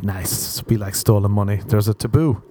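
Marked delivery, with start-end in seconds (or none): 0.0-0.6 deadpan approval. Pretend. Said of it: "they'll be like".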